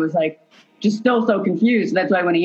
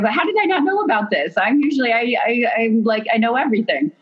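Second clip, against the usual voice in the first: disbelief; 6 semitones higher than usual. Retold or imitated. Retelling her own disbelief.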